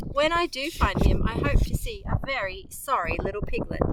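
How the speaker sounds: a worried mother hunting her piglet. A narrator's reading. A hint of a fretful mother pig searching for her son.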